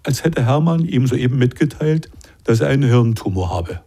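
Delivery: measured, expressive reading of a prison tale; calm literary narration with lightly voiced characters; story narration. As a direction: read it like an author at a reading. Author reads his story aloud.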